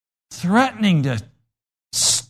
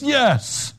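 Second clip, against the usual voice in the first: put-on meek boy's yes; 8 semitones higher than usual. Boy answering teacher.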